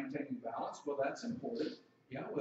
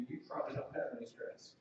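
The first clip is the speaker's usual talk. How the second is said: mock skeptic; 4 semitones lower, 7 dB quieter than usual. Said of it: "Say, "Well, preacher".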